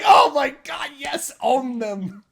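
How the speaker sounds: high, loud fan shout; excited cheer. Retold or imitated. Fan cheering rapper's comeback, excited cheer. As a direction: egg them on loudly, stretching the end.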